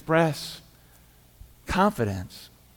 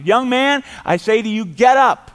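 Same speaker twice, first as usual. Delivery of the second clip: a loud, raised command to the dead; commanding call; 5 semitones higher, 8 dB louder than usual. Acted. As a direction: call the dead man up with authority. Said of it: "He says".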